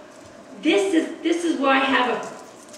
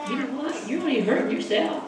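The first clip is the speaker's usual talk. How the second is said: softer, gentle correction; gentle Holy Ghost voice; 4 dB quieter, faster than usual. Acted. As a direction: quietly set them straight. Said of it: "the Holy Ghost is saying".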